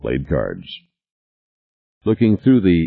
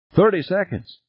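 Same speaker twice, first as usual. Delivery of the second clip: much higher, tense voice; panicky countdown; 12 semitones higher than usual. A narrator's reading. Passenger counts down to the explosion, high and panicky. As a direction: call out the time anxiously.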